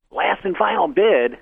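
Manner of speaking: auctioneer's call. Retold or imitated. Auctioneer calls final bid.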